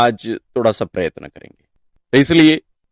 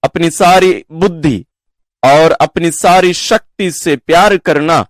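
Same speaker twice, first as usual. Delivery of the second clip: measured, solemn Gospel reading with raised pitch on key phrases; scripture reading; 3 semitones higher than usual. Acted. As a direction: proclaim the verses deliberately, pausing between phrases. Reads the Gospel passage aloud.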